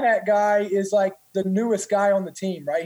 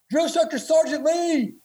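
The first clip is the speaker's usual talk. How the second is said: higher, called-out summons; calling out; 7 semitones higher than usual. Retold or imitated. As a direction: call for Sergeant Lee up high. Senior calls the drill instructor.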